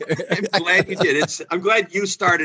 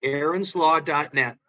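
slow, careful repeat; 3 dB quieter than usual. Real, not acted. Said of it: "repeating the website for listeners".

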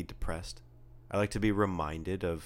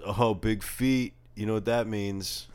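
imitated skateboard kid; 3 semitones higher, 4 dB louder than usual. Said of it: "in comes, like, the kid on the skateboard".

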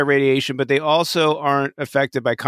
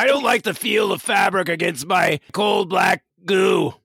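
Armus voice; 4 semitones higher than usual. Pretend. Voicing Armus.

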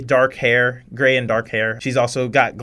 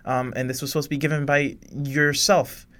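nervous assistant voice; 6 semitones higher than usual. Acted. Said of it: "And Clara goes".

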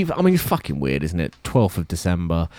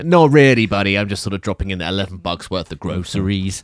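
put-on American accent; 3 semitones higher, 4 dB louder than usual. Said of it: "I'm doing, like, an American Voice here".

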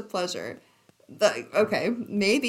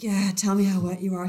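mock lover; faster than usual. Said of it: "he's like".

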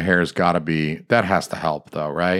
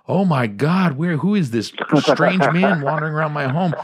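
alarmed; 7 semitones higher than usual. Retold or imitated. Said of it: "I'm like".

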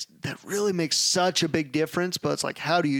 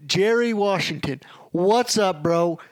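excited shout-out; 4 semitones higher, 4 dB louder, slower than usual. Real, not acted. Greeting his old college roommate on the show, excited and loud. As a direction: call out to him like spotting a friend.

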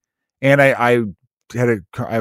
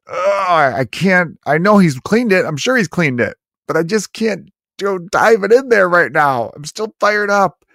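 mock squeamish girlfriend; 8 semitones higher than usual. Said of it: "she's immediately gonna be like".

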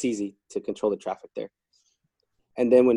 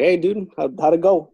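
higher and louder, a bright friendly hail; upbeat greeting; 6 semitones higher, 6 dB louder than usual. Retold or imitated. Guard greeting a sulky inmate, higher and louder. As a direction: break the ice with a cheery hello.

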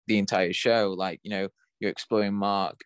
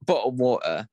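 mock British accent; 3 semitones higher, 4 dB louder than usual. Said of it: "gonna say a lot of things that Americans think we're gonna say".

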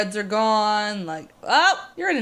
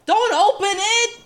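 high-pitched, urgent call-out; warning cry; 10 semitones higher, 3 dB louder than usual. Real, not acted. Viewer pleading with film characters not to open it, urgent warning cry.

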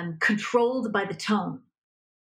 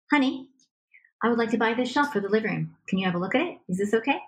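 calm request demo; 2 semitones higher, faster than usual. Shown as a demonstration. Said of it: "here's the broken record technique".

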